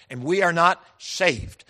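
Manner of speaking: slow down and lean on "saved"; pause, then a weighty "saved"; emphasis on saved. Retold or imitated. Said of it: "Every time I come to the word saved".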